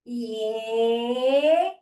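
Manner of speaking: loud, drawn-out cheers of yay; cheering yay. Shown as a demonstration. Leading the class in a loud cheer. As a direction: cheer as you pour the milkshake.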